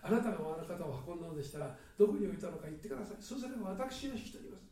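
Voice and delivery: a rushed, desperate plea to the gardener. Acted. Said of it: "必死になって、". (必死に早口で懇願する)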